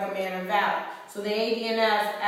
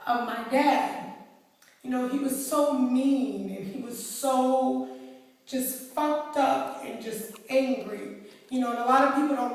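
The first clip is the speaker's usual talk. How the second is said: getting emotional; 3 semitones higher than usual. Real, not acted. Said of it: "I'm gonna get emotional".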